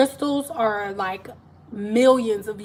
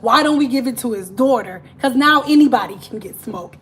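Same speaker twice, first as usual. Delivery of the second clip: louder, conspiratorial pitch; scheming angel; 5 dB louder than usual. Retold or imitated. An angel suggesting they pass it to his daughter, louder and sly. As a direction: pitch the idea like a sly bro. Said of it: "one of the angels was like".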